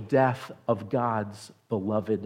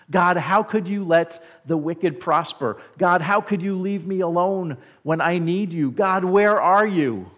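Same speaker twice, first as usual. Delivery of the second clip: acted anguished cry; 5 semitones higher, 6 dB louder than usual. Psalmist crying out to God when left alone, anguished. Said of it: "this cry of anguish".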